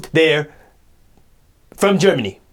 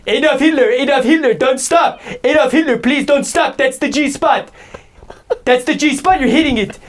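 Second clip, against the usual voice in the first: mock moaning woman; 8 semitones higher than usual. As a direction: overplay a woman calling his name in bed. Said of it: "Imagine that".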